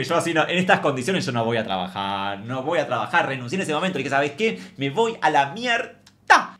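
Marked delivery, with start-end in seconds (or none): 0.0-3.3 defiant line through a laugh; laughing defiance. Retold or imitated. Comedian quitting her job, laughing. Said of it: "me enojé". 4.1-6.6 louder, higher, slow drawn-out mock fury; angry quitting. Comedian telling the boss she's quitting, mock furious. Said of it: "me enojé".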